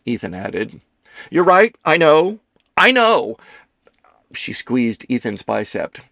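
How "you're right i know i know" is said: high, loud, exasperated agreement; dramatic concession. Acted. Kelsey conceding to her friends, loud and dramatic. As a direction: concede with theatrical force.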